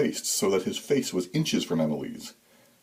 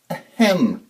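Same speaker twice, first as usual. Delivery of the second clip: a high, prim little throat-clear; polite ahem; 9 semitones higher, 6 dB louder than usual. A narrator's reading. A girl politely getting Santa's attention, high ahem. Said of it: "in her politest voice".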